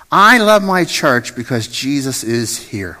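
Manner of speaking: slow, deliberate words for the church to echo; slow call-and-repeat line. Shown as a demonstration. Slow call-and-repeat line. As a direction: pastor slowly models the line for the congregation to repeat. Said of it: "Would you say that with me?".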